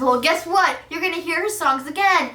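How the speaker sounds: high teasing retort; student teasing the tired principal; cheeky comeback. Pretend. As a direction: tease him with a grin. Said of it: "He'd be like".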